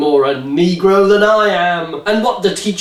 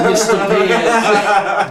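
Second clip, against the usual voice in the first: laughing slow; 5 semitones higher, much slower than usual. Real, not acted. Laughing at the author's name.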